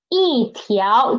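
一 falling, then 条 rising; fourth-tone yi. Shown as a demonstration. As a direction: model 一条 as fourth tone plus second tone. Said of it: "So it changed to fourth tone".

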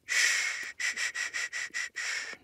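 soothing shushing. Acted. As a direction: hush a frightened loved one to calm. Calming a crying spouse.

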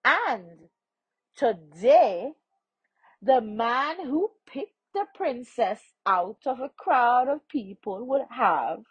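lightly voiced stranger, measured and emphatic; informative stranger. Stranger telling the poor man of the princess, lightly voiced and emphatic. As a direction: explain it with a slightly lifted voice.

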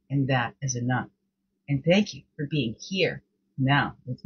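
soothing breathing cue voice; guided meditation. Acted. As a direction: guide them gently into calm, slowly.

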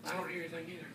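very soft, hushed voice. Acted. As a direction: whisper it so the egg can rest. Hushed listening at incubator.

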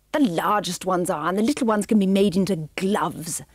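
lightly voiced haughty villainess, impatient; brisk, a hint of a cold aristocrat; villainess Cruella.

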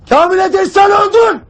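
rising shouted verdict; stern commander's shout. Acted. Commander telling a soldier he is dead, stern shout. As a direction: hit him with the verdict.

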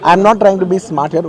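talking over clamour. Real, not acted. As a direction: speak up firmly to get the floor.

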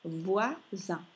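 "voisin" in two separate syllables, vwa, zan, nasal close; nasal ending. Shown as a demonstration. Teacher repeats for learners, syllables apart, nasal ending. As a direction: repeat "voisin" split up, last vowel nasal. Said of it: "dobbiamo fare una nasale".

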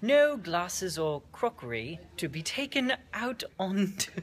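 lightly hammed-up British announcement; British accent. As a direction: read the notice in a put-on British accent. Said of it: "The best British accent you've ever heard".

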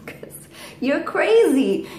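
slow, playful whisper. Real, not acted. Teasing parrot Cody in a slow whisper.

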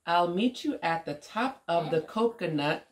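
put-on lilting, measured story reading for a child; picture-book read-aloud. A narrator's reading. Woman reading an alphabet story to young Omari, lilting read-aloud. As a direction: read it out rhythmically with playful swoops.

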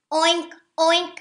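loud high oinks; snorting pig. A narrator's reading. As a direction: oink it out like a pig. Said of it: "snorted Pig".

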